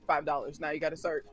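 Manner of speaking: mock demand, played straight; imitated sarcasm. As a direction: drop the voice and mimic dry sarcasm. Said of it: "you know, like, that's her sarcasm".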